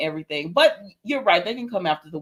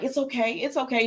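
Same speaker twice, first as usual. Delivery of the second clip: higher, lightly voiced soothing repeat; retold reassurance; 5 semitones higher, 4 dB quieter than usual. Trina keeps telling Portia throughout the wedding, imitated reassurance. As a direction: imitate someone quietly coaxing.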